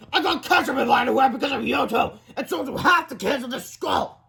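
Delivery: high, loud angry accusation; shouting. A narrator's reading. Principal blaming two boys for ketchup, shouting. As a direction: holler it at the culprits. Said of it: "shouted Mister Krupp".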